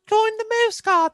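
high mocking recruiter voice; mock the recruiting pitch; sarcastic quote. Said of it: "they said".

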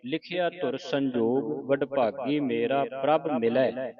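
slow, measured teaching recitation; scripture recitation. Shown as a demonstration. Teacher reading scripture for the congregation, slow recitation. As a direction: recite each word slowly, drawing out the vowels.

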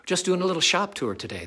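calling out high and loud; shouting. Real, not acted. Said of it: "I'm kinda shouting".

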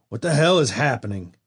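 a pained, held-back snarl; through clenched teeth. A narrator's reading. Bitten old father demanding answers from his son, through clenched teeth. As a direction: force it out past the pain, jaw tight. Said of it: "said through clenched teeth".

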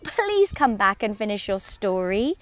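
Alice calls out, slow and pleading; calling after. A narrator's reading. Alice calling after the mouse, slow pleading call. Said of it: "Alice called after it".

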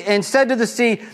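ordinary talk

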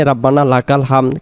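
হামদ cut to "ham", the দ dropped; common mispronunciation. Shown as a demonstration. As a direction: run it together, losing the end of হামদ. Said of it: "আমরা যেটা ভুল করি".

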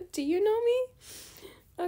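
drawn-out mock question. Mocking fan question again.

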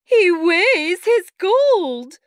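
slow, loud, very high wife voice; outraged wife crying out; indignant cry. A narrator's reading. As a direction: stress it slowly, high and loud. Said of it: "she cried".

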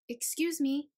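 politely. Acted. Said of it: "Idaho said politely".

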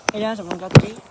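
loud coaxing call. Real, not acted. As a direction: call out to lure it. Calling out to the dinosaur.

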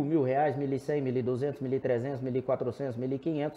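calm, steady auctioneer calling bids. Shown as a demonstration. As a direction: count up the bids, calm and even. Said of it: "O leilão, por exemplo, eu estou leiloando um boi".

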